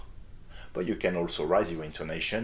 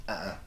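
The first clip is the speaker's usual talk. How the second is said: negative uh-uh; 6 dB quieter than usual. Shown as a demonstration. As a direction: quietly say no with "Uh-uh". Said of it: "Or negatively". (un « Uh-uh » négatif, doux)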